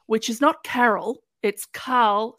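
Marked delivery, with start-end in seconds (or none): 1.4-2.4 "Carl" in a light Scottish accent; "Carl" with a rolled Scottish r. Shown as a demonstration. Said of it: "said in a Scottish accent".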